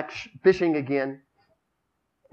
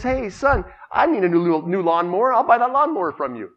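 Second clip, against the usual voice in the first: preacher; 5 semitones higher, 7 dB louder than usual. Acted. Preacher voiced in joke.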